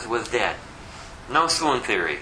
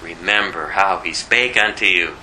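deep, solemn angel voice; angel quoted; 12 semitones lower, 4 dB louder than usual. Retold or imitated. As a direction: drop low for the angel's words. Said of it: "the angels are telling us".

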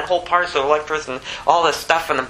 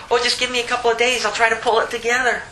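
high-pitched plea for more time; pleading; 9 semitones higher than usual. Acted. Debtor begging his creditor for a few days, pleading. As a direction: plead in a hurried, raised voice.

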